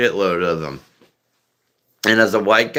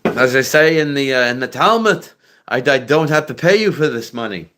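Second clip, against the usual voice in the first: Jewish voice; 4 semitones higher than usual. Shown as a demonstration. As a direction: caricature Jewish accent, slightly raised. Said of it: "that would be your Jewish voice".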